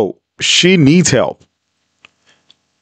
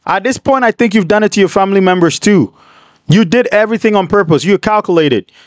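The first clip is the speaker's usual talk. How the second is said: heated rant; 4 semitones higher than usual. Real, not acted. Host rants back at her.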